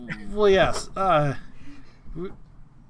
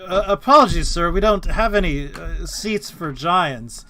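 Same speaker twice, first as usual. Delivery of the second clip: polite server; 3 semitones higher, 8 dB louder than usual. Acted. Server addresses the giant.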